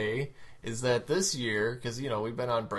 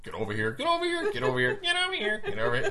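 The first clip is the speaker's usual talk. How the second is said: mock yelling mom; 10 semitones higher, 4 dB louder, faster than usual. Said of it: "your mom starts screaming at you".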